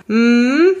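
grumbled hum without looking up; distracted dad's humming grunt. A narrator's reading. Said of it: "brummte Papa".

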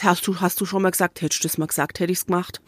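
low, soft quote in regional German dialect; imitated German dialect. Quoting the man from the video, imitated German dialect. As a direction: slip into the man's German dialect, dropping low. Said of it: "Der hat es in so einem Dialekt gesagt".

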